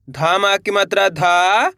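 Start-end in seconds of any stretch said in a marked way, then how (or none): 0.1-0.4 each syllable held long and separate, vowels swooping up, last one dropping. Shown as a demonstration. Teacher sounding out a word for learners, syllable by syllable. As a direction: spell it out sound by sound with pauses. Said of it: "एक अक्षर का उच्चारण सही से".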